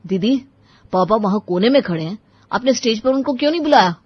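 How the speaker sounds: pressing, annoyed brother; angry confrontation. Acted. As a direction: confront a sister with mild anger. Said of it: "Ram को बहुत गुस्सा आया".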